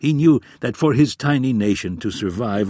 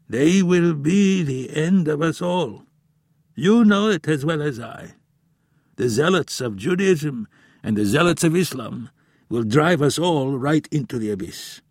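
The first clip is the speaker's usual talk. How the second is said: put-on grave old professor; 7 semitones higher than usual. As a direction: warn like a weary elder.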